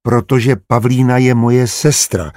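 putting his foot down; emphatic. Acted. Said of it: "opáčil důrazně Petr". (důrazně, pomalu)

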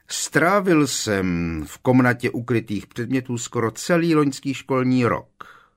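high, loud, strained answer; piercing, high-pitched boast; piercing squeaky voice. A narrator's reading. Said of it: "odpověděl pronikavě pisklavým hlasem Malfoy".

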